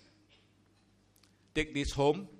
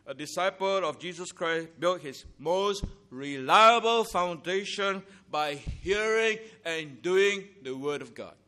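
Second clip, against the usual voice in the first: ordinary talk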